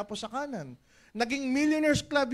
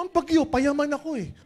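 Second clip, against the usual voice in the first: defiant shout; 3 semitones higher, 6 dB louder than usual. Acted. Acted leader's defiant reply.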